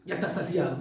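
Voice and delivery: dry, low mock praise. Preacher voicing Paul's sarcasm to Corinthians, low and dry. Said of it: "Pablo está hablando sarcásticamente".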